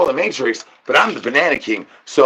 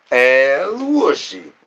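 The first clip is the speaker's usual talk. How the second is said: slow, high, stretched call of El Wushy; drawn-out call to a pet; cat-calling sing-song; 5 semitones higher, much slower than usual. Acted. Calling the cat in a long high sing-song.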